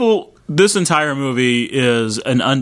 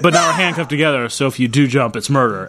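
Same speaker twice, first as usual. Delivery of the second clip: usual speaking voice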